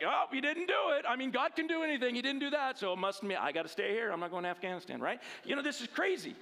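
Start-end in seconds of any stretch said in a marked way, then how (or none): 0.0-5.0 mock excited believer. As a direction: ham up the giddy self-justifying believer. Mocking a believer's fleece logic.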